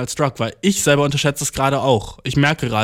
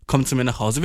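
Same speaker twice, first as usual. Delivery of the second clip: lower, soothing reassurance; tröstend; 4 semitones lower than usual. Acted. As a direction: gently comfort a friend in your arms. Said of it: "ihn im Arm nehmen und sagen". (tröstend, mit tieferer Stimme)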